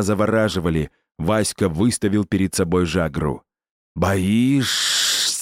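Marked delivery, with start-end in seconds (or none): 4.0-5.4 протяжный чужой голос твари; протяни вопрос зловеще; шипение твари. Acted. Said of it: "прошипела тварь". (лёгкое шипение твари)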